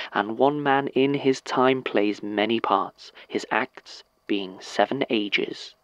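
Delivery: slow, measured stage recitation; Jacques monologue. Acted. Actor reciting his Jacques monologue for the listener, measured recitation. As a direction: recite Shakespeare, lingering on the opening and closing phrases. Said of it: "that is a monologue by Jacques".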